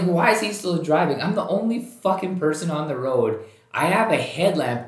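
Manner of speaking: mock-furious disbelief; exasperated rant. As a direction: vent like nobody's seen you on an empty road. Retelling frustration at passing car.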